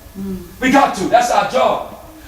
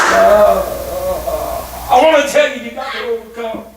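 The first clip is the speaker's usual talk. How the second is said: halting preacher demo; 3 semitones higher than usual. Shown as a demonstration. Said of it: "But if I sit back and say".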